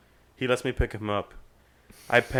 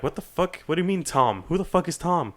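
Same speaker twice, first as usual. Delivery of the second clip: retold disbelief, pitched up; mock bafflement; 7 semitones higher than usual. Fraternity guys baffled about who Tom is, acted incredulity. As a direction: imitate high-pitched incredulous questioning.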